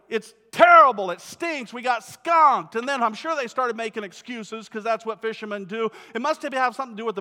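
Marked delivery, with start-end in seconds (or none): 0.1-2.8 loud, fed-up shout back; frustrated shout. Retold or imitated. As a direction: yell back in disgust at the bad catch. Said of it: "they're like".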